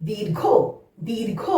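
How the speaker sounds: দীর্ঘ said softly, r before gh; soft falling দীর্ঘ with a clear র; model pronunciation. Shown as a demonstration. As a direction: sound র just before ঘ in দীর্ঘ. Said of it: "ঘয়ের আগে র উচ্চারণ".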